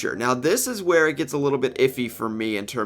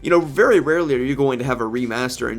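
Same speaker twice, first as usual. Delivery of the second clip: groggy voice. Real, not acted. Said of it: "my voice is groggy".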